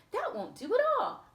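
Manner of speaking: high-pitched dismay; exclaiming princess. Acted. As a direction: squeal it like a startled princess. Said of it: "Aurora exclaimed".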